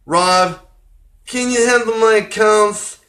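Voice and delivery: mock New York accent. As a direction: play a New York guy asking for help, half-joking. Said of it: "That's the best accent I can get".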